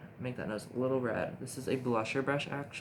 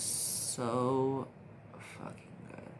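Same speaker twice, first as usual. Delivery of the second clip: whispered praise; 4 dB quieter, much slower than usual. Real, not acted. Excited makeup praise, dropping to whisper.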